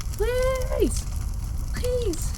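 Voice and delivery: high, cracking begging cries; desperate plea. Acted. Trapped hero begs for help, high desperate cries. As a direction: plead with everything left.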